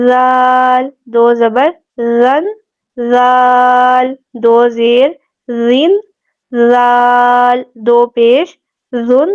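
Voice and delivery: slow drill, زال held long with a soft th as in "this"; soft dhal. Shown as a demonstration. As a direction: say زن and زین with no whistle. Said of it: "نرمی سے ادا کریں گے". (زال اور زن نرمی سے)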